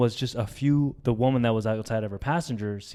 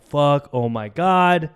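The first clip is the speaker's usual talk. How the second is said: loud, slow, drawn-out swearing; re-enacted distress; 2 semitones higher, 7 dB louder, slower than usual. Driver left at the crash scene, re-enacted distress. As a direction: let it out heavily, reliving the shock.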